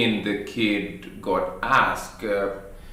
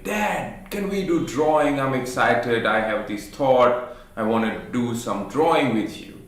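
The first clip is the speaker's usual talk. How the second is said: put-on excited kid. Son asking dad to draw together, lightly excited child voice. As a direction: plead like a keen little boy.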